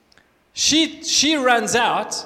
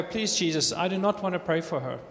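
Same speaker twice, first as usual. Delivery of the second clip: soft, pleading murmur to Jesus, faster at the end; hushed plea; 3 semitones lower, 8 dB quieter than usual. Retold or imitated. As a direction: plead under your breath so nobody hears. Silent prayer in the shop.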